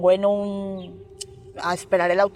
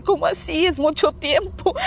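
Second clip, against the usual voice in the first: startled; 8 semitones higher than usual. Retold or imitated. She was startled by the answer.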